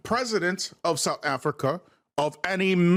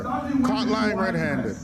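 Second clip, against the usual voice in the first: slow, drawn-out reading of his post; mock quote; much slower than usual. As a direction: read his words back slowly, mocking. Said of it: "Look what he said".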